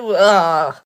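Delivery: loud retold "ugh" of disgust; exaggerated grossed-out noise; disgusted groan. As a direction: groan out your discomfort loudly. Disgusted reaction while retelling.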